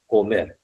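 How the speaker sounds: "comer" with the accent on "mer"; teacher's recap of "comer", stressing "mer"; stress on last syllable. Shown as a demonstration. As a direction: rest the weight on the end of "comer". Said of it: "En la última".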